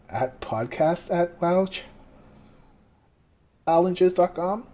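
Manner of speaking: every phrase ends on a rise; questioning tune. Real, not acted. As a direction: uptalk on the email address. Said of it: "everything with a question, right?".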